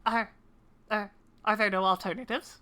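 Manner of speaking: hesitant, stammering character voice; lightly voiced nervous kobold. Cornered kobold asking for alternatives, nervous and hesitant. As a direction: stumble toward giving up.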